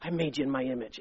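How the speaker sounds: low, soft voice of God; the Lord speaking. Acted. God telling a woman who she is, low and soft. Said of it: "The Lord doesn't talk like that. He'll say".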